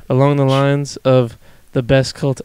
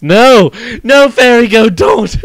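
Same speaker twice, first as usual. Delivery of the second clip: mock plea; 9 semitones higher, 5 dB louder, slower than usual. Pleading with a chat member.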